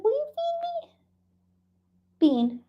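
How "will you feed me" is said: high whispered kitty voice; cat voice. Pretend. Streamer voicing her cat begging for food, high whisper. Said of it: "She's like".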